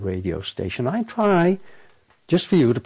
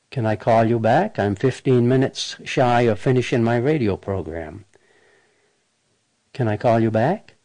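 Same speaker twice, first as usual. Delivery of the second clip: brisk, polite answering-machine brush-off; dodging a caller. Shown as a demonstration. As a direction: fend off the caller cheerfully. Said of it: "Watch how I handle this".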